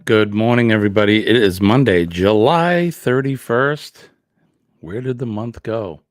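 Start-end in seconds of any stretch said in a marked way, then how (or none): 0.1-4.1 loud, hearty welcome to the stream; big show-opening greeting. Real, not acted. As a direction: boom it out to open the show. Opening the morning livestream.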